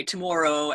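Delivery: "tomorrow" with a rounded Canadian OR; Canadian pronunciation. Retold or imitated. Wife mimics Canadian husband, "tomorrow" said his way. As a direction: imitate a Canadian saying "tomorrow". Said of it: "he's Canadian and".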